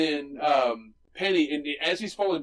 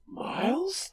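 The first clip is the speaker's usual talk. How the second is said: name lifted high into a question; high questioning call. Retold or imitated. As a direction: voice the hero's high-pitched query. Acted quote of masked hero.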